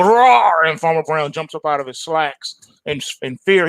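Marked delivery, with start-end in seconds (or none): 0.0-0.6 a big playful roar, pitched up and loud; tiger roar. Acted. Tony the Tiger roars at Farmer Brown, loud mock roar. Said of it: "he go".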